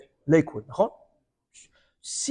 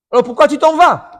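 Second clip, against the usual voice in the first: higher, louder, puzzled question; loud demand; 10 semitones higher, 14 dB louder than usual. Acted. Man asking the Baal Shem Tov why he leaves, loud puzzled call. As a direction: call it after him, baffled.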